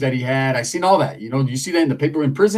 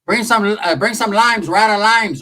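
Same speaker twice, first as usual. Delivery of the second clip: higher, louder fatherly hollering; imitating the dad; 5 semitones higher, 4 dB louder than usual. Dad calling his son over for menudo, loud. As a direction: call across like a dad inviting you over. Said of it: "My dad keeps saying".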